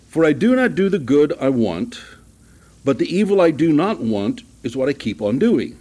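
deliberate scripture reading with pauses between clauses; slow, careful reading. Real, not acted. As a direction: read it out phrase by phrase, so the tongue doesn't trip. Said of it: "You have to read that kind of slow".

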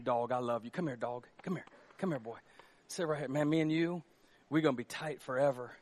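a hint of Adam doting softly on the dog; Adam talking to the dog. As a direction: coo at the new dog like a best friend. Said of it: "he's like".

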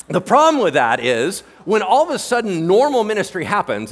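ordinary talk

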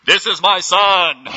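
God as a thundering megaphone; booming divine voice. Retold or imitated. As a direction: boom it out from the heavens. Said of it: "Was it".

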